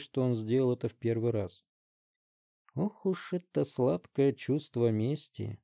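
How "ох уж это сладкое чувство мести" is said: slow, savoring drawl; drawn out. Acted. Detective gloating to the boys, slow savoring drawl. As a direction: stretch each word like tasting revenge. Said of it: "протянул детектив".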